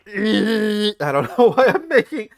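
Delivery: high mock voice breaking into laughter; mock Dane DeHaan, laughing. Mocking Dane DeHaan's line, high and laughing. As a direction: squeak the line, then crack up laughing. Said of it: "Dane DeHaan's just like".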